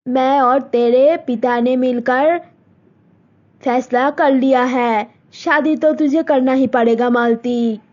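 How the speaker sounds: mother telling daughter about a proposal; Malti's mother. Acted. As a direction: speak as a set-in-her-ways village mother. Mother decides.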